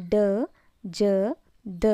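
"ಡ, ಜ, ದ" as isolated sounds of D: retroflex d, j, dental d; "ಡ, ಜ, ದ", each a consonant with a short uh; letter-sound demo. Shown as a demonstration. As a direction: sound out "ಡ, ಜ, ದ" with a pause after each. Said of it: "ಈ ಮೂರು ಅಕ್ಷರದಿಂದ pronounce ಆಗ್ತವೆ".

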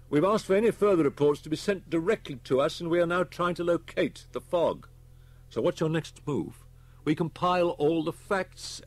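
grave inspector. Acted. Inspector briefs Holman on the school deaths, grave. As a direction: report the grim facts firmly.

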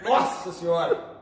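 slow, strained gasp through a burning mouth; struggling against burning pepper heat; mouth burning from spicy food. Real, not acted. Just ate very hot pepper.

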